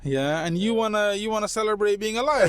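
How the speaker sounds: imitated London street motivator, high-pitched mock rant; Upna Jay. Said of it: "the birthday video".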